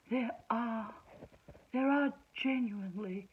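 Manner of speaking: slow, syrupy mock agreement; dripping with sarcasm. To a casino bloke claiming good men exist, dripping sarcasm. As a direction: agree sweetly while mocking him, slowly. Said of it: "dripping with sarcasm".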